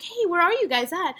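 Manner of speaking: chill; super calm. Retold or imitated. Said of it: "Like, super calm, chill".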